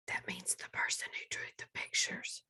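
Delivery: soft unvoiced whisper; whispered aside. Real, not acted. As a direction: lean in and whisper the explanation. Aside to young listeners.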